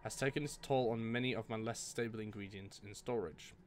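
note read in a mild put-on British accent; a hint of a British scholar reading his journal; lightly British reading of the diary. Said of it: "read it in with my British accent".

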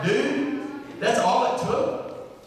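high-pitched mock disbelief; tease, incredulous, voice lifted; sarcastic. Jesus as a Texan ribbing Nathanael, sarcastic. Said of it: "Jesus is gonna be sarcastic here".

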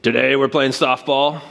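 slow, firm "will" like a gym coach; mild stern coach command; coach's order. Retold or imitated. Coach to weight-training class, lightly stern command. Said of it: "Coach Beaugrand would say".

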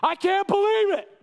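high, loud cry of disbelief; astonished. Acted. Preacher voicing Paul's astonishment at the believers. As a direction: gasp it out in disbelief. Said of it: "He's astonished".

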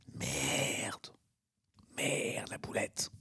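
soft, drawn-out whispered swearing; voiceless, embarrassed muttering to oneself; dismayed whisper. Real, not acted. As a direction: whisper it as the blunder sinks in. Realises his on-air blunder.

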